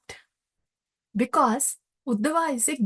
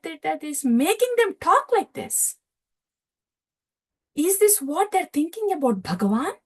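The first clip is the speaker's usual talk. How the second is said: bewildered wonder; 3 semitones higher than usual. Retold or imitated. Uddhava's bewildered inner thought.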